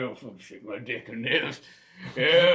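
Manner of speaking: lightly put-on Southern accent; mock Southern good ol' boy grumble. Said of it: "It's a Southern accent".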